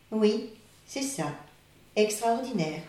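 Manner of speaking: las et soupirant, plus doux; soupirer, lassée. Acted. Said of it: "dans un soupir de lassitude". (la tortue, lassée, soupire)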